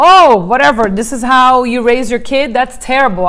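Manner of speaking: loud, sneering judgment of a mother; mock scornful critic. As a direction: scoff loudly at how she raises her kid. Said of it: "someone comes up to me and says".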